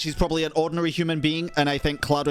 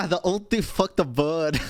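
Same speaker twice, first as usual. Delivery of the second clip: laughing. Real, not acted. Joking about the story.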